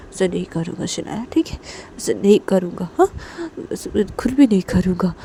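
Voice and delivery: emphatic repeated promise; earnest remorse, voice swelling with urgency; contrite, comforting Disha. Acted. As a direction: soothe insistently, pressing each vow.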